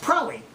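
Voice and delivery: "Probably" cut to two syllables; syllable dropped. Shown as a demonstration. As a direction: drop the middle syllable of "Probably". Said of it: "don't use all three syllables".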